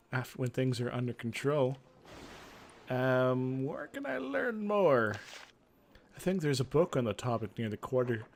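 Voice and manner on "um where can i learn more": 1 hesitant question. Acted. Player voicing own character, asking.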